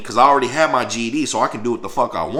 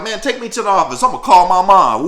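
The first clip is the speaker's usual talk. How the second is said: mild retold demand; 7 semitones higher, 6 dB louder than usual. Demanding to call mom.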